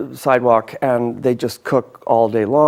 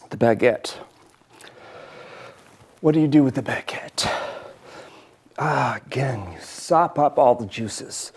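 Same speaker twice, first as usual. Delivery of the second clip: talking through a big bite; chewing between words, half whispered; mouth full; 4 dB quieter than usual. Real, not acted. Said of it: "took a little bit too big a bite".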